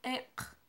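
Ek as one short crisp syllable; Mam word, clearly modelled. Shown as a demonstration. Teacher models the Mam word for black, clearly. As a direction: model Ek for the class to repeat. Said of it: "Una última vez".

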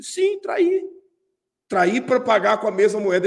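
a sharp high defiant admission; lightly voiced girl snapping back; defiant girlfriend. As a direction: throw it back at him, unrepentant.

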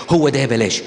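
a hint of a dithering lovesick girl; lightly voiced girl torn between yes and no; mock lovesick dithering. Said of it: "وبقول".

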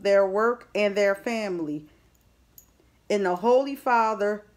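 slow, steady prayer of protection; sincere blessing spoken slowly; earnest prayer. Real, not acted. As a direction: pray over the listener, unhurried.

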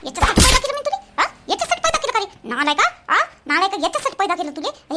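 furious mother berating her son; angry scolding. Acted. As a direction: tear into the worthless boy. Mother scolding son over loss.

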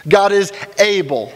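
slow, steady statement of trust; confident faith. Retold or imitated. Believer in hard times, slow trusting declaration. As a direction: say it slowly, sure of God. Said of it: "taking the position of".

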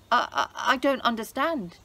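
stammering, scared and loud; trembling Haman. Acted. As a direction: stutter in panic. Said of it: "Haman trembled".

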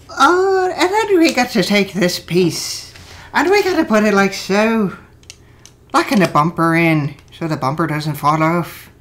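hammed-up Irish accent; bad Irish accent. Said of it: "That was supposed to be Irish".

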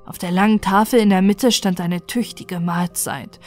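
ordinary delivery, nothing marked

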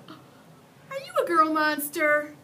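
put-on high, hesitant little boy; a polite kid asking carefully; young boy voice. Boy asks loudly.

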